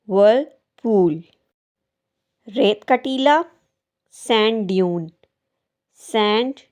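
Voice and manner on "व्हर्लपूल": व्हर्लपूल in two separated parts, R silent. Shown as a demonstration. Teacher showing viewers the silent letter, R dropped in व्हर्लपूल. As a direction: say व्हर्ल, brief gap, पूल, without the R. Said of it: "silent होगा".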